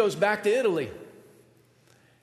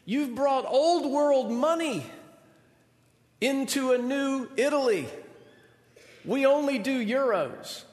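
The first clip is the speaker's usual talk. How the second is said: higher, slow, patient explaining voice; explaining Italian local; 6 semitones higher than usual. Retold or imitated. Italian tells the student his lira are worthless, slow and patient. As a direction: spell it out slowly to a clueless tourist. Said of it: "And they said".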